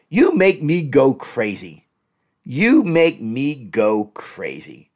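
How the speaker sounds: slow, heavy accusation; drawn-out reproach; slow blaming. Shown as a demonstration. Demonstrating a blaming line to a partner, slow and heavy. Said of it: "don't say".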